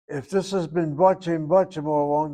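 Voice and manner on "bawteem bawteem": "Batim" with a rounded "o" in the first syllable; short-kamatz pronunciation. Shown as a demonstration. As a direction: say "Batim" as baw-TEEM. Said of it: "then it should be Batei".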